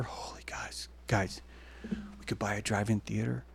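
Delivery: hushed, thrilled aside; excited whisper. Real, not acted. Telling viewers a secret plan, whispered.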